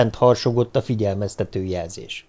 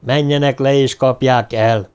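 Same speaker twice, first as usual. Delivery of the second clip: shouted order; 3 dB louder than usual. Acted. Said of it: "kiáltotta valaki".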